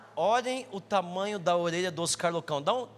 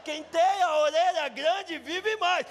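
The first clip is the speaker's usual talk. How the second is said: mother's advice; 8 semitones higher, slower than usual. Retold or imitated. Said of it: "o conselho da minha mãe".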